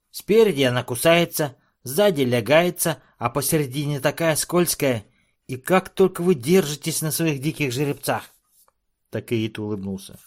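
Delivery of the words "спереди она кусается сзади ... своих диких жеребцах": high, loud dwarf voice; ranting dwarf. A narrator's reading. Dwarf to Dakotas, high ranting complaint. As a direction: rail against the horse. Dwarf rants about horse.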